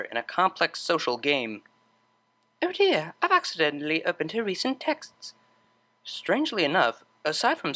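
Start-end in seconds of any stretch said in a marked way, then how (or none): 2.6-5.3 high, sheepish oops; mock innocent. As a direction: pretend accidental guilt. Caught snooping, feigned innocence.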